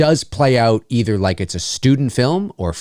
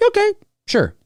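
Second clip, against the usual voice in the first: sarcastic; 10 semitones higher, faster than usual. Pretend. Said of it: "I'd be like".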